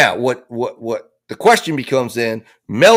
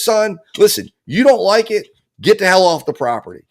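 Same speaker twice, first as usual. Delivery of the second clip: higher-pitched acted telling-off; angry father; 6 semitones higher than usual. Dad ordering his son off the property, angry. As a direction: lay down the law as an annoyed dad. Retold father shooting back in quarrel.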